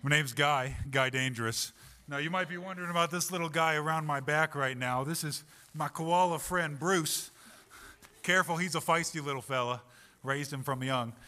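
put-on a light Australian accent introducing a koala. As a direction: play an Aussie wildlife wrangler. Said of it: "I know it's a good accent".

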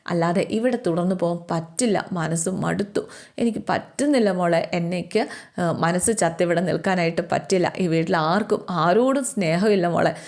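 lightly voiced tired sadness; mild sadness. Alina tells the little sister she must leave, mildly sad. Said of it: "ആകെ സങ്കടപ്പെട്ട്".

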